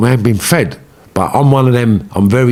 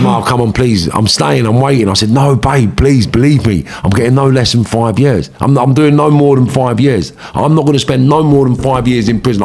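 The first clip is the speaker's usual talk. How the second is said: retold couple's argument, pitched up; urgent, higher-pitched reenacted appeal; earnest pleading; 4 semitones higher than usual. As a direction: insist and plead to be believed. Acted pleading argument between couple.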